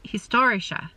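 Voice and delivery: "historische" slow, stress on "stor", four syllables; careful German word. Shown as a demonstration. Stitcher practicing the German "historische" for viewers, slowly. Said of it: "the emphasis is on the store".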